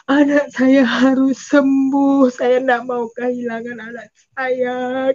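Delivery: slow, insistent lament; retold tearful plea. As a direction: plead with drawn-out words, as if crying. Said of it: "Saya menangis". (ratapan ibu yang memohon, lambat)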